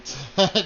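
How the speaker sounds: short laugh in character; acted laugh. Mother asked about other children, short acted laugh. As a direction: give a brief laugh before answering. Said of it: "She laughs and she says".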